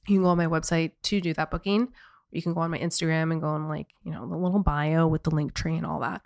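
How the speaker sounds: hoarse, croaky voice from a sore throat; rough, raspy frog voice. Real, not acted. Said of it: "I apologize for my frog voice again".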